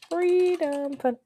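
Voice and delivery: high drawn-out singsong. Real, not acted.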